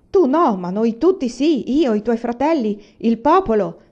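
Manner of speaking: mock her bad luck; exasperated mother sneering; 1 sarcastic rebuke.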